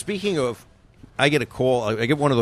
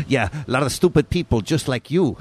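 laughing scammer; 2 semitones higher than usual. Retold or imitated. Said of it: "and he laughed".

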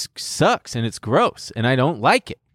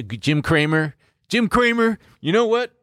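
rising callout; 12 semitones higher than usual. Acted. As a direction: voice climbing higher with each name. Building up to a callout.

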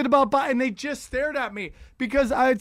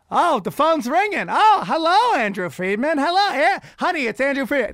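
higher, louder mock old man eager on phone; Vin Scully faking a phone call; 5 semitones higher, 4 dB louder than usual. Old announcer fakes a call to escape his wife, eager. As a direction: ham up an old man pretending someone called.

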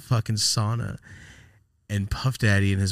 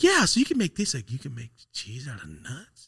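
mimicking Rosie; 3 semitones higher than usual. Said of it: "and she's like".

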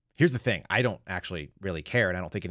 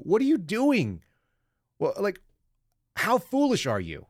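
exasperated; 10 semitones higher, slower than usual. Real, not acted. Ranting at foolish suspect.

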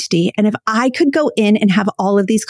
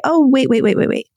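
gentle wait; 2 semitones higher than usual. Shown as a demonstration. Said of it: "put your hand up in the air and gently say".

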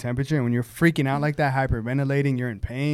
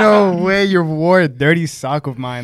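disbelieving scold; 4 semitones higher, 7 dB louder than usual. Retold or imitated. Boyfriend scolding over sock.

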